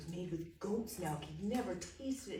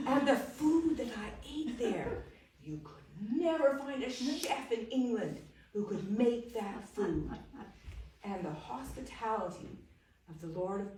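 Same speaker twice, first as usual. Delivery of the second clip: louder, higher, laughing through the praise; laughing boast; 4 semitones higher, 10 dB louder than usual. Acted. Young man boasting to the Duke, louder and laughing. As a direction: gush with laughter over the castle.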